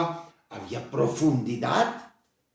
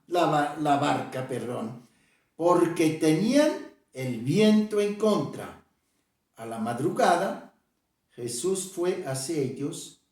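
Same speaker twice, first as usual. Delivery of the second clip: scripture reading. Acted. Preacher reads Matthew to the church, measured scripture reading. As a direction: read the passage deliberately, as from the pulpit. Reads Bible passage aloud.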